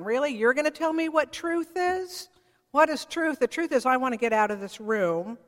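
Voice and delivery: a hint of a mocking governor; mock taunting. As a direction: toss it off with a sneer. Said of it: "he's being taunting".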